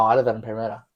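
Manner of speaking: put-on Australian accent, run-together words; Renee. Imitating the Australian friend, Australian accent. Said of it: "do an Australian accent".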